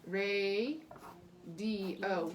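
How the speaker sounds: "re", "D", "O" as separate beats; divided into syllables. Shown as a demonstration. Teacher showing pupils where radio divides, syllable by syllable. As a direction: break the word between the vowels of "D" and "O". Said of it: "See how we divided right between".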